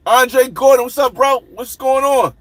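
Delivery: upbeat call-out to a viewer; hyped greeting. Real, not acted. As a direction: greet him like a buddy walking in. Greeting chatters by name.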